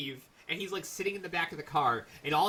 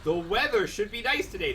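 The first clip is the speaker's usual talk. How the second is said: higher, louder mocking sidekick voice; Eric; 6 semitones higher, 6 dB louder than usual. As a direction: parrot a teammate's pointless remark. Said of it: "and tell you, like".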